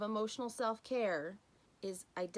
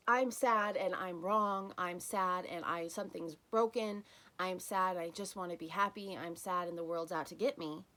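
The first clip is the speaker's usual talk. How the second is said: wrong way, self-pitying; 4 dB louder than usual. Shown as a demonstration. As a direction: pile a sad story onto the feeling. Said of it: "It's not".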